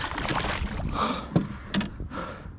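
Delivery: soft, voiceless huffing laugh; winded laughter trailing off quietly; quiet panting chuckle of relief; breathless laugh. Real, not acted. Relieved after landing the fish.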